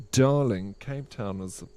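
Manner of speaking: lightly put-on Cape Town southern suburbs accent; fancy Cape Town accent. Shown as a demonstration. Streamer trying a suburb accent on request, fancy Cape Town accent. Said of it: "best Cape Town southern suburbs accent".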